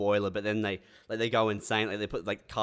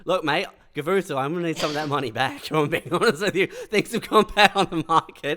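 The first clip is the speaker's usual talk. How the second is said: mock sponsor demanding money; 5 semitones higher, 5 dB louder than usual. Plays sponsor demanding money back.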